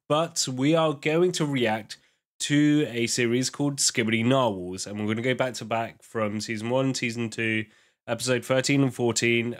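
congested, groggy cold voice. Real, not acted. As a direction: talk through a head cold. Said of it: "Apologies for the, like, groggy voice".

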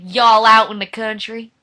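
put-on Southern accent. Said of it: "We have terrible Southern accents".

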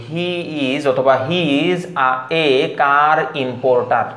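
slow word by word, "car importer" with plain k and both r's sounded; local spelling-style pronunciation. Shown as a demonstration. Teacher showing how it sounds read plainly, "car importer" unaspirated with every r. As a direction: draw out "car importer", hard unaspirated k, p, t and full r. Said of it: "তাহলে কেমন শোনায়?".

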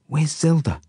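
high, weak croaked question. A narrator's reading. Injured boy asks after Zelda, croaking. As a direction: croak it out as if just coming round. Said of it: "I croak".

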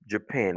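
"Japan" as juh-PAN; "Japan" with a schwa and English PAN; second-syllable stress on JAPAN. Shown as a demonstration. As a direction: reduce the first vowel of "Japan", stress PAN. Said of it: "c'est sur la deuxième syllabe".

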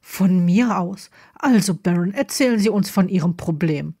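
a touch of impatience, held back; a bit brusque. Acted. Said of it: "war Dracos Tonfall ein wenig schroff".

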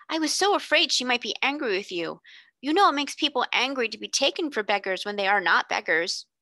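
put-on mildly worried girl. Janet worries aloud.

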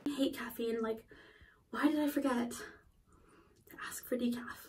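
slow unvoiced whisper to herself. Real, not acted. Caffeine-jittery vlogger whispering to herself, slow and annoyed. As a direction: breathe it out, scolding yourself.

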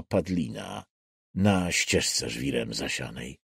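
slow, solemn reading of a dark poem, lines falling away at the ends; poem recitation. Acted. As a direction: recite it gravely, savouring the decay. Poem recited within the novel. (uroczysta, powolna recytacja wiersza)

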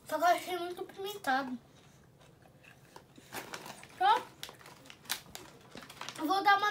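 chewing while talking; talking around a chip; mouth full. Real, not acted. Seen 2: puts chip in mouth at 2.1, chews after, grimacing.

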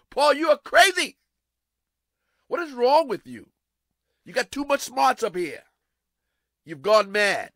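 high, loud incredulous mockery; mocking Festus. Festus mocking Paul as crazy before the king, high and loud. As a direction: tease him as a lunatic, loud and high. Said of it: "He said, "Paul, you crazy".

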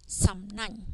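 Sam nang, second syllable with open a, nang; Khmer pron. Shown as a demonstration. Teacher rereads Sam nang after the rule, careful. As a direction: say Sam nang with the na sound from no sra a. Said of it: "No sra a becomes na".

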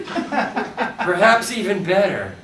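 slow, amused aside; laughing. Real, not acted. Reader amused by her own joke, laughing slowly. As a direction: chuckle it out.

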